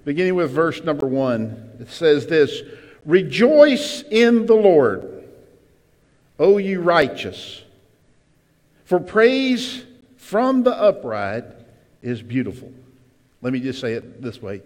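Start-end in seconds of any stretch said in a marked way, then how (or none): 3.0-12.7 loud, slow, solemn reading; scripture reading. Acted. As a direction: proclaim the verse slowly. Reads scripture in sermon voice.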